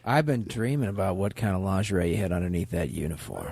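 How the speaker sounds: low, soft come-on; low seductive voice. Acted. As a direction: purr it like a seducer. Acted seduction line.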